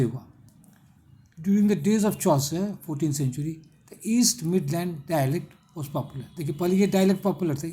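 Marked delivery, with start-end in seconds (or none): 1.4-6.2 reads the English line very slowly for notes; slow dictation. Shown as a demonstration. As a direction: dictate each word slowly and clearly. Teacher dictating English text slowly.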